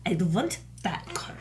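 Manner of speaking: "want" said as "vant" with a V; "I'd want that car" with V sounds for every W. Retold or imitated. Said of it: "she kept putting the V".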